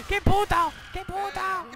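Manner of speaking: high, loud shocked exclamation; shrieked outrage. Real, not acted. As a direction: shriek it in disbelief. Exclamación aguda repetida. (exclamación aguda y fuerte, incrédula)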